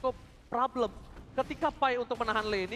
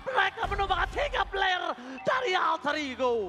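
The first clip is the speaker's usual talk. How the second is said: excited play-by-play; 4 semitones higher than usual. Real, not acted. Caster hyping a teamfight turn.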